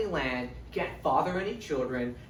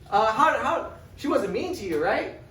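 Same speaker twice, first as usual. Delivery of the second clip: higher, worried brother asking; mildly voiced nervous brother; anxious brother; 9 semitones higher, 6 dB louder than usual. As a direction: press him nervously. Robb probing Jon.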